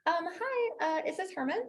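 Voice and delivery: high, honeyed sales voice; sweet as pie on the phone; sugary sweet. Acted. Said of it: "my real estate voice".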